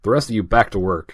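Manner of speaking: lightly imitated American movie-star accent; Harrison Ford. Podcaster imitating the star dropping the Russian, American accent. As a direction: switch abruptly into a plain American accent. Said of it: "delivers the second just in his own American accent".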